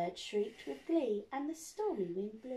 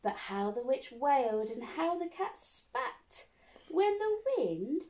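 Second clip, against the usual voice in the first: put-on reading to children. Reads picture book to children.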